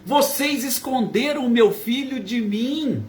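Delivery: agudo, mãe aflita procurando o filho; grito desesperado imitado. Retold or imitated. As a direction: imite uma mãe em desespero, voz mais alta no tom. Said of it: "chegou desesperada gritando". (desespero de mãe, encenado)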